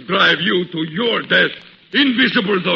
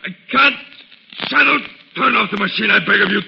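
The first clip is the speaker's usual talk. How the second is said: desperate pleading; 3 semitones higher than usual. Acted. Ahmed begs, trapped by light.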